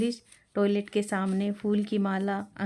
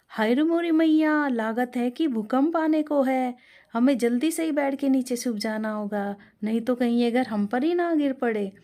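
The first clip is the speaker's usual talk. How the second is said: higher, louder panic at the rattling machine; panicked cry; 4 semitones higher, 4 dB louder than usual. Acted. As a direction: cry out in fright, then hurry the rest. Anju panics at earthquake noise. (घबराई हुई ऊँची, तेज़ आवाज़ में)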